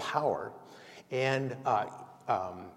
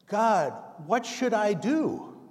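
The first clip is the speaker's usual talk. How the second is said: pleading hiker; 8 semitones higher, slower than usual. Acted. Hiker pleads while hanging.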